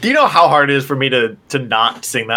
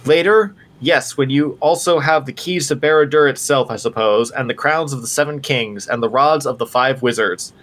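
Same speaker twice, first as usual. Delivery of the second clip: rising to a scream; 2 semitones higher than usual. Acted. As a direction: cry out, then sneer onward. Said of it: "his voice rose to a scream".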